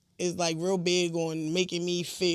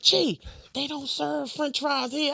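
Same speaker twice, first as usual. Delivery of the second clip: mock cousin; 5 semitones higher, slower than usual. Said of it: "He was like".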